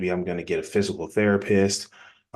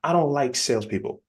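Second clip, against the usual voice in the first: higher-pitched, mildly irritated brush-off; mock irritation, voice pitched up; mock annoyed; 6 semitones higher than usual. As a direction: act out a prospect annoyed at being pitched. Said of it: "how mad they're gonna be".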